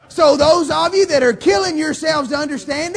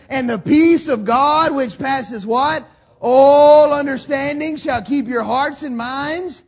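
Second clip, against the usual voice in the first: slow, louder scripture recital; preaching scripture; 4 dB louder, slower than usual. Real, not acted. Pastor reciting a Bible verse to his church, slow and loud. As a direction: proclaim the verse.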